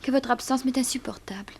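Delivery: breathy whispered confession; intimate whisper. Acted. Girl confessing her longing to her suitor, whispering. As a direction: breathe it out, lovesick. Lovesick girl confides softly.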